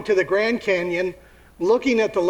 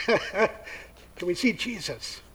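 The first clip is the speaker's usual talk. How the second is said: slow plea; 6 dB quieter, much slower than usual. Acted. Greeks repeating request slowly.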